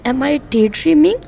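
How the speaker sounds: each word spelled out slowly for learners; slow, careful classroom English; very slow model reading. Shown as a demonstration. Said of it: "तो फिर आप क्या use करेंगे?".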